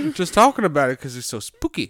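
lightly mocked Southern Belle accent. Lady recalling a scary film, Southern Belle accent. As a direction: play up a Southern Belle being interviewed. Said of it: "Southern Belle".

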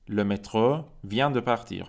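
"Le métro vient de partir" said slowly, each word separate; slow, careful French for learners; slow model reading. Shown as a demonstration. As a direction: drill it slowly, stressing vient.

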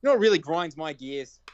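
lightly voiced cartoon dad, hint of Boston; a touch of a Family Guy dad; Peter Griffin impression. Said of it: "your best impression of Peter Griffin doing it".

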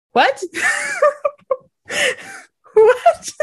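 high, loud startled squeal of what; shocked what. Retold or imitated. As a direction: react like you can't believe he said that. Shocked reaction to flirty remark.

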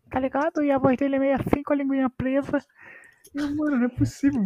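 high, thin voice with a lisp. Retold or imitated. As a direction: imitate a tongue-tied fighter. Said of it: "falando fininho com a língua presa". (voz fininha com língua presa)

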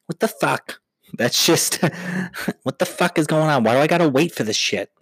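a hint of a griping Long Island accent; mock Long Islander, annoyed; Long Islander impression. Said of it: "That's every fucking Long Islander".

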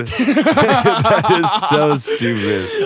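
laughing through the words, slowly; can't stop laughing at it. Real, not acted. Laughing at lingerie football.

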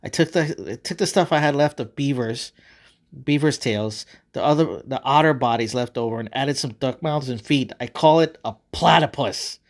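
proud proclamation, building to the name; triumphant. Acted. God presenting his new beast to Adam, triumphant. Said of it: "God proclaimed triumphantly".

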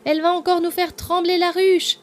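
high, loud lighthearted yell; laughing shout. Acted. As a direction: call out the alarm as a joke, laughing. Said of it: "hurlait une autre en rigolant".

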